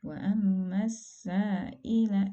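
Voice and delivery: Wa ammas sa'ila with the long mad clipped to two counts; cut-short mad demo. Shown as a demonstration. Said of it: "itu dibacanya menjadi terlalu pendek".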